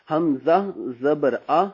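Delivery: drawn-out drill recitation; slow spelling drill. Shown as a demonstration. Teacher slowly spells for students. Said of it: "spelling demo".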